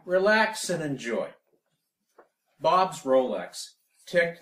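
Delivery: loud, projected comic poem reading; poetry recitation. Acted. Poet reads a comedic poem to an audience, loudly declaimed. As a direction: declaim it phrase by phrase, pitch swinging up.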